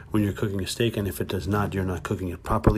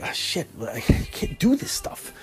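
much higher, whispered and slow; whispered despair; 13 semitones higher, much slower than usual. Retold or imitated. Owner of the killer dog whispers in despair. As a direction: breathe it out defeated. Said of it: "It's like".

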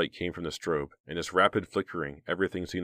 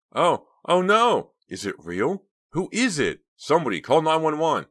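high, loud, horrified outcries; panicked cries; 11 semitones higher, 7 dB louder than usual. A narrator's reading. Party guests seeing a body, panicked cries. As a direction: cry out in alarm, pitch leaping up.

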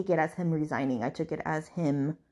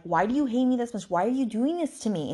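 plaintive, higher-pitched imitation of a hurt plea; retold heartbreak; 6 semitones higher than usual. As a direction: act out a heartbroken question, lightly. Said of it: "like, heartbroken. She's just like".

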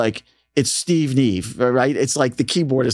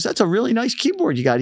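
higher-pitched imitated British accent; a singer, British accent; 11 semitones higher than usual. The singer addresses the kid, imitated British accent. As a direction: say it up high, lightly British. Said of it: "He has a British accent".

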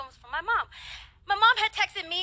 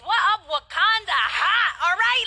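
louder, pitched up, hyped; excited shout; 3 semitones higher, 4 dB louder than usual. Real, not acted. Preacher celebrating her ancestry results, excited shout. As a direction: hype it up like a cheer.

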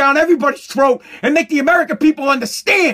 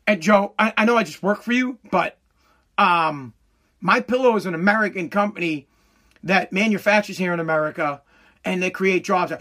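meek objection; 6 semitones lower, 3 dB quieter than usual. Acted. Meek employee reasoning with boss Joe.

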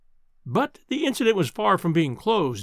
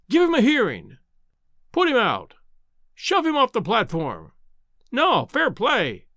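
crowd shouts; 5 semitones higher than usual. Acted. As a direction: shout out like rowdy students. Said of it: "emerged from a general roar".

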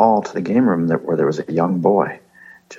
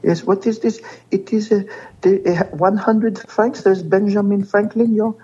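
put-on French kid; 13 semitones higher than usual. Host playing Gregoire showing his money, squeaky high voice. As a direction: squeak it like a little French boy.

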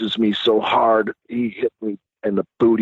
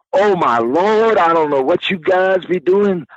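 shocked maid; 7 semitones higher than usual. Retold or imitated. The maid finding naked Paul, startled and scandalized.

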